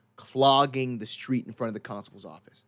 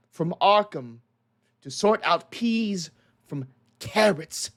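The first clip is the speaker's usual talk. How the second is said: firm constable; 4 semitones higher than usual. Acted. Constable with hand on revolver ordering the mob, firm raised voice. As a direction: lay down the law, hand on the gun. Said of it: "hand on his revolver".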